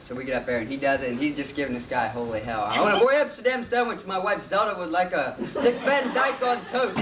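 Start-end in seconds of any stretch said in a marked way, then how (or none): 2.6-7.0 high-pitched mock Jewish accent. Bill crank-calling the deli, high mock Jewish accent. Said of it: "using that accent and asking".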